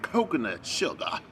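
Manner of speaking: imitated Black Southern belle accent; mock Black Southern accent. Vlogger mocking the cook's pronunciation, imitated Black Southern accent. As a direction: mimic her put-on Black Southern accent. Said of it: "That's her black accent when she tries to talk like a black Southern belle".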